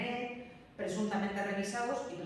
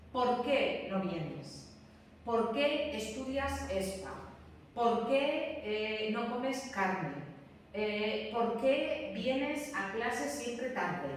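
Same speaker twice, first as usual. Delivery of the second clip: slow example questions; much slower than usual. Shown as a demonstration. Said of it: "Cuando vosotros tenéis una pregunta directa".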